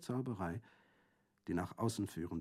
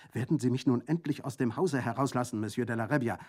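impatient; 3 semitones higher, 6 dB louder, faster than usual. Acted. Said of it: "aufstampfend vor Ungeduld".

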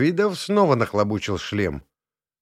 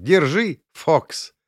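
much higher, rising, amused; laughing handover; 7 semitones higher, 4 dB louder, much slower than usual. Acted. Inna returning the helmet, laughing. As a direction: hand it back laughing. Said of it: "вернула её со смехом".

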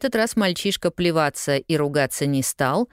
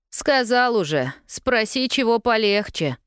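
smirking; 7 semitones higher than usual. A narrator's reading. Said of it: "ухмыльнулся мальчуган".

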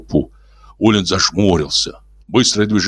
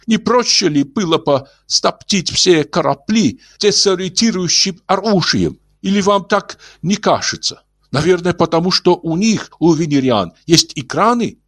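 gentle alien voice; 11 semitones higher than usual. Acted. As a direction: speak like a kindly old alien. Ulin voiced.

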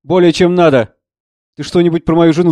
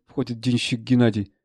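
ordinary talk

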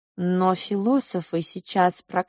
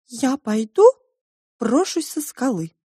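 sobbing; 6 semitones higher, 6 dB louder than usual. Acted. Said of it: "всхлипывала Маринка".

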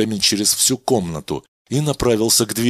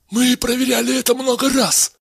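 much higher, assured scientist voice; calm doctor; 3 dB louder than usual. Acted. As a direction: reassure the patient.

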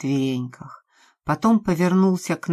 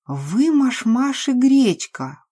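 assertive; 8 semitones higher, 4 dB louder, slower than usual. A narrator's reading. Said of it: "утвердительно произнесла Настя".

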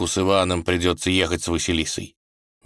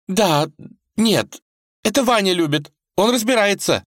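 high, flustered, tearful babbling; flustered babble; 5 dB louder than usual. A narrator's reading. Vasilisa flusters under her father's question, high babble. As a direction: stammer it out in a fluster. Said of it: "залепетала".

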